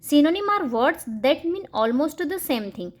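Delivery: very slow, word by word; slow, clear dictation pace; slow example read. Shown as a demonstration. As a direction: read it out slowly for children. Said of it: "ये दोनों बच्चों को school में पढ़ाया जाता है".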